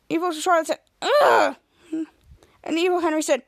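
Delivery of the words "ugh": loud, higher "ugh"; mock exasperated groan. Retelling Evil Charlotte's reaction, mock exasperated groan. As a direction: groan as if fed up, acted out.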